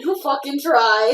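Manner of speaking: gruff orc growl. Retold or imitated. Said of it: "He's pretty damn serious when he says that".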